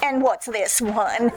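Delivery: asked through a slow chuckle; barely holding back the giggles; amused, laughing while she asks; laughing question. Acted. Katie laughs at three sleeves.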